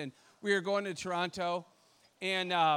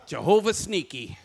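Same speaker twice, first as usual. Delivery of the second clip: amused oh dang with a laugh; chuckling realization; caught out, laughing; 4 dB louder, slower than usual. Retold or imitated. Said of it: "I'm like".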